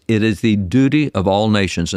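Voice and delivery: "duty" made the prominent word of the phrase; stress on duty. Shown as a demonstration. Reading the president's proclamation to the host, emphasis on "duty". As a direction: lean firmly on the word "duty". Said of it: "emphasize the word duty there".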